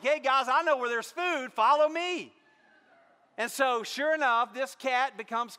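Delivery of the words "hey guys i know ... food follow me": higher, louder cat calling his friends; rally the other cats; cat sharing a food secret; eager cat voice. Retold or imitated. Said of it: "he's like".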